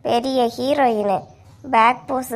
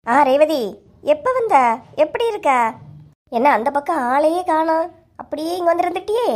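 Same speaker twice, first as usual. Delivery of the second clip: mock surprise; 4 semitones higher than usual. Brother greets Revathi with mock surprise.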